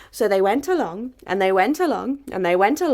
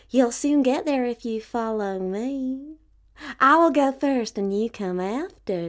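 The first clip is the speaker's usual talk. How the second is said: sly fox. Acted. Foxy Woxy leads them to cave.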